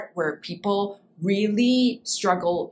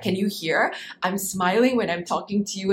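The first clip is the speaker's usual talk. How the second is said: smiling voice. Shown as a demonstration. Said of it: "you can hear the smile".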